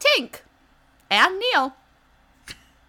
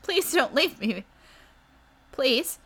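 put-on begging child; 2 semitones higher than usual. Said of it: "Rumple is begging and pleading".

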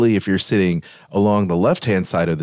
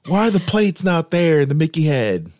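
baffled outburst; 11 semitones higher than usual. Retold or imitated. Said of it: "I'm just like".

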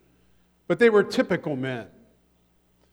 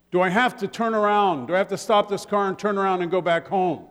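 stern dad; 3 semitones higher than usual. Retold or imitated. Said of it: "your dad might say something like".

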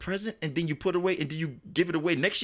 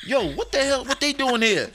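roach voice; 11 semitones higher, 5 dB louder than usual. Retold or imitated. Roaches at the table, acted.

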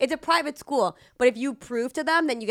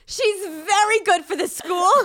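mocking school voice; 10 semitones higher, 7 dB louder, slower than usual. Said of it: "They were like".

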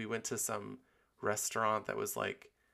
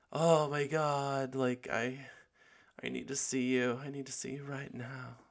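excited gushing; 5 semitones higher, 4 dB louder than usual. Retold or imitated. Gushing to a crush who calls.

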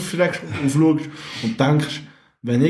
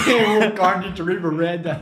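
laughing mock British accent in German; 3 semitones higher than usual. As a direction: try a British accent, giggling. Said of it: "gerne einen britischen Akzent".

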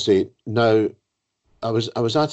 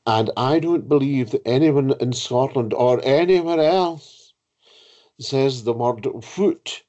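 mock-haughty host, pitched higher; haughty disbelief; 5 semitones higher than usual. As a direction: imitate an affronted, well-travelled book-group host. Retold host disputes the word indignantly.

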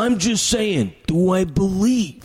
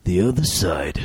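shouted Macho Man style read; wrestling promo. Retold or imitated. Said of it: "like Macho Man".

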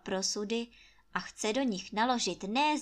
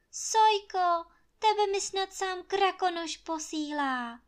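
much higher, louder glad cry; joyful exclamation; 10 semitones higher, 5 dB louder than usual. A narrator's reading. Anče joyfully calling out to the jay. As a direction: call out with relief and joy. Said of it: "zvolala Anče".

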